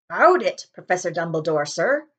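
cheerful giant reporting in; Hagrid voice. Acted.

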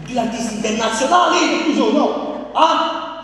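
loud announcer call; shouting. Acted. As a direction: belt it out like a showman. Comic hyping up the guests.

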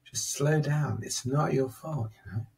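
gentle, soothing inner voice; slow down and reassure him kindly; a lightly voiced kind inner helper; calming voice. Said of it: "this voice in my head that said".

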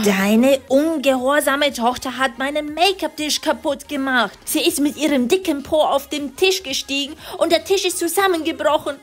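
höhere, genervte Mama-Stimme; Mama schimpft. Acted. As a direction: als aufgebrachte Mutter höher sprechen. (Mutter findet Tochter im Schlafzimmer, höher und genervt)

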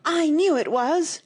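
high, loud, drawn-out wail; anguished, angry outburst; furious cry. A narrator's reading. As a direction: cry out in outrage, stretching it. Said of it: "cried Tweedledum".

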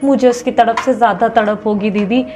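a mild mock plea with a sulky lilt; mock whiny viewer. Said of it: "अब ऐसे नहीं किया".

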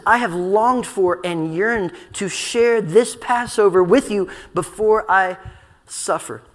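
slow, deliberate paraphrase of scripture; earnest longing. Retold or imitated. Preacher voicing Jesus' yearning to share Passover, slow and earnest. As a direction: draw out the longing, pause before "suffer". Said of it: "in a very godly manner".

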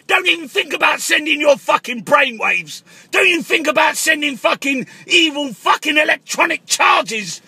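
shouting conspiracy abuse down the phone; comic angry paranoid rant. Acted. Caller ranting at the Queen, comic angry shouting. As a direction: yell at the Queen like a raving caller.

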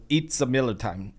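light imitation of an Indian accent; lightly mimicking an Indian accent. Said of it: "in his Indian accent".

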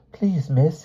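put-on high, nervous child's voice; flustered boy answering teacher; stammering schoolboy. A narrator's reading. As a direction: plead timidly, pitched high. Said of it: "he stammered".

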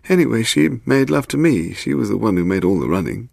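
high-pitched, protesting little man; defensive Willie. Acted. Suspect blaming his lover to policeman, high defensive voice.

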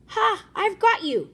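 high loud gloat; triumphant. Acted. Fisherman gloats over a catch, high and loud.

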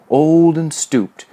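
slow, high, stretched taunt; mocking. A narrator's reading. Major shuffles as an aged Alfred, slowly mocking. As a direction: draw the words out in mockery. Bully's mocking imitation builds.

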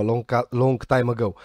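slow, drawn-out long, long time ago; mock storybook. Narrator mocking Sasuke's claim, slow fairy-tale tone. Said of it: "Dar stai un pic puțin".

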